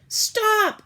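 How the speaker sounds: sharp high shout; yell. A narrator's reading. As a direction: shout to stop him. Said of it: "I yelled".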